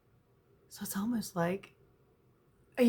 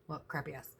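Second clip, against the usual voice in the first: ordinary talk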